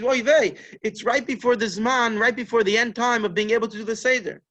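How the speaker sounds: high, loud dismay at being late; retold alarm. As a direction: act out waking in a panic. Waking up too late, alarmed.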